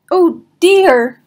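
high, loud panicked cry; yell. Acted. Pooh yells in fright at the roaring rock. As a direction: cry out in alarm. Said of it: "yelled Pooh".

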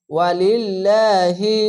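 ওয়ালিল্লাহি slow, light thin lam, drawn out; thin Allah sound. Shown as a demonstration. Teacher demonstrating thin Allah, slow recitation. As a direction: intone ওয়ালিল্লাহি slowly with a thin l. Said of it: "আল্লাহ লেখাটি পাতলা করা হবে".

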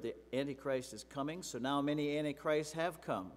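loud, forceful Bible reading; scripture reading. Acted. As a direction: proclaim each verse to the congregation. Reads scripture passage aloud.

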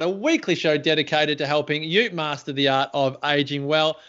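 energetic show introduction; show host intro. Acted. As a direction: welcome the audience like a radio host.

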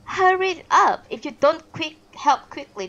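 loud, high urgent command; sharp order. Acted. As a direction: snap the order at the servant.

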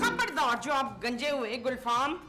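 slow, emphatic scolding; wife's hammed-up warning to her husband; mock warning. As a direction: warn him off sternly. Wife warns husband.

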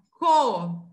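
"co" loud, the O lengthened; teacher's emphatic "co"; syllable demo. Shown as a demonstration. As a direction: sound out "co" with a held O. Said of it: "o C com O".

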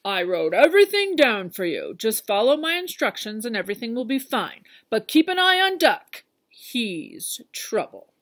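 stern farmer giving orders, then a warning; bossy farmer leaving instructions; Farmer Brown. Acted.

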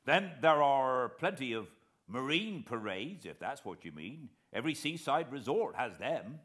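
lightly voiced naval veteran, eager to help; retired officer answering gentlemen politely; old coast guard man. A narrator's reading.

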